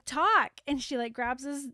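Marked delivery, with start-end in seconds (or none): 0.0-0.5 a short barked order, louder; mock demand; bossy command. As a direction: order the donkey to talk. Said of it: "she's like".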